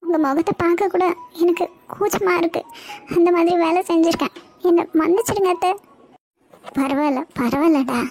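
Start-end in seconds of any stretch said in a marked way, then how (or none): 0.0-5.7 higher-pitched, ashamed apology; remorseful pleading. Acted. Niece begging her aunt's forgiveness, remorseful.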